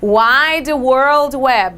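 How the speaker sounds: "Wide World Web." drawn out word by word; slow model English. Shown as a demonstration. Teacher giving a class example, very slow. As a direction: dictate it slowly for the class. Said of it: "Por exemplo".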